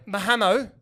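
"Mahamo" with an added vowel and no final d; botched name. Retold or imitated. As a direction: mangle Mahmoud into "ma-HA-mo". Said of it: "Completely fucked up my name".

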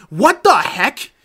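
baffled caller. Pretend. Confused caller to the new agent, high loud disbelief. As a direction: act stunned that the voice changed.

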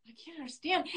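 high, thin panicked voice; retold panic. Recalling a screaming boss, high panicked voice. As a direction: squeak it out like you're lost and scared. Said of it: "I was, like, panicking".

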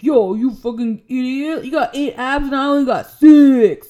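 loud, laughing mock rant; imitating a jealous jock snapping; mock angry snap. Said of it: "He's like".

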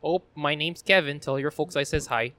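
light Midwest Wisconsin twang; hint of a folksy Wisconsin accent. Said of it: "You had to do the Wisconsin accent".

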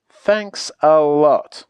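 slow, heavy, aggrieved; deadpan reproach, drawn out; sarcastic thanks. Acted. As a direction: spell out the thanks resentfully. Turned into a frog, sarcastic.

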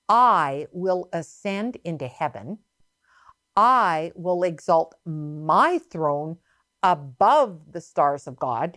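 lightly voiced Satan, drawn out; slow, deliberate weight on each boast; Satan's boast. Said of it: "This is how he, how he talked".

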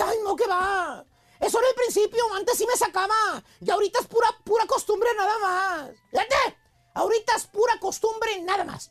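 a touch of sadness imitating the wife; voz triste. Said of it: "con voz triste". (la esposa suena apenas triste, voz triste imitada)

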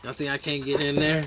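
loud, laughing cocky wolf. Retold or imitated. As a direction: taunt them like a cocky wolf. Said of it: "He's like".

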